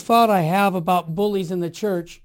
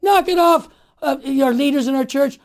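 defiant call-out; 5 semitones higher, 5 dB louder than usual. Pretend. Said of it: "It's time to speak up and say".

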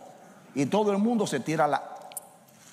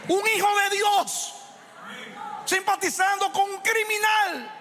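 fiery preaching. Acted. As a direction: thunder it out as a rebuke. Preacher at full force. (reprensión a gritos desde el púlpito)

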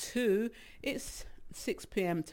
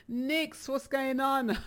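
breathless greeting, higher pitched; out of breath; 7 semitones higher, slower than usual. Real, not acted. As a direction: talk as if winded. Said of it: "Why are you sound".

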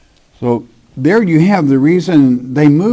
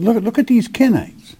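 a raised, pleading voice for the Father; voicing God; 4 semitones higher than usual. Preacher voices God rebuking his people, lightly acted disappointment. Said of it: "He said".

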